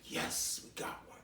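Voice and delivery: hushed gleeful demon voice; sneaky demon whisper; whispered demon gloat. Retold or imitated. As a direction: whisper it like a demon claiming a prize. Demons gloating over a soul.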